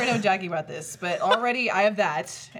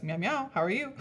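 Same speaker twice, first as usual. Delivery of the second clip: understated, softer meowed hello; lightly voiced dad answering the phone in meows; father's meow greeting; 5 dB quieter than usual. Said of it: "And he goes".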